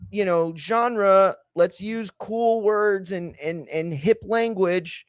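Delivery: mock eager sales team; hammed-up pitch, stretching the buzzwords; clueless sales team. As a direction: play marketers pushing hip language. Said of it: "They're like".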